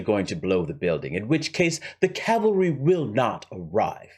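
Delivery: lightly voiced scheming villain with a rough accent; Hans. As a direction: lay out the heist deliberately, in character. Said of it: "Let's go back to Hans".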